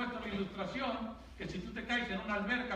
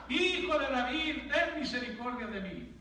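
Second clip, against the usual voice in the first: crying out louder; 2 semitones higher, 4 dB louder than usual. Acted. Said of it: "él clamaba mucho más".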